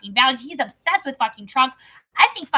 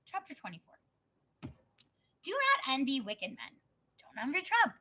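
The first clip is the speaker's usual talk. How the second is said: scripture reading. Acted. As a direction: read it out measured and steady. Reads Proverbs chapter aloud.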